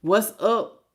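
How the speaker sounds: "What's up?" clipped short and flat, no lift; curt what's up. Shown as a demonstration. Reader showing how a disinterested person answers, flat and short. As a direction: shut the conversation down with "What's up?". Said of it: "If I went".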